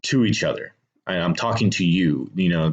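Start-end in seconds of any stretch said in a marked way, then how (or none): 0.0-0.7 to pushed up and firm, falling after; stress on to. Shown as a demonstration. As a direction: punch to, not at. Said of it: "They need to talk".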